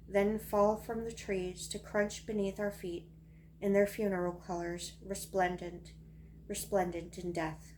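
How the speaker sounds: measured poetry recital with pauses between lines; poem reading. Acted. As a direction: read each line as verse, pausing after it. Reads own poem aloud.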